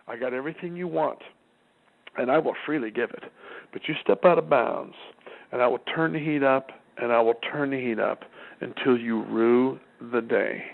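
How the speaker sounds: low, measured, slowing to a threat; a hint of a menacing father; stern parental warning. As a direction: lay down the law calmly.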